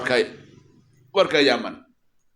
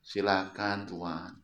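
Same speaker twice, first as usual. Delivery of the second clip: smiling reply; 5 semitones lower, 5 dB quieter, slower than usual. Retold or imitated. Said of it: "Senyum, Bu, Nabi".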